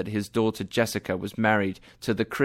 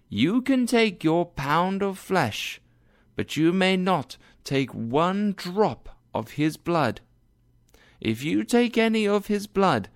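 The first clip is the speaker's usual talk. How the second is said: Portia as judge; 6 semitones higher than usual. A narrator's reading. Portia voiced.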